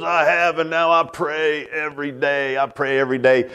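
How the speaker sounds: a hint of Tommy's slurred voice; slurred stroke speech. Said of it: "his speech is really slurred".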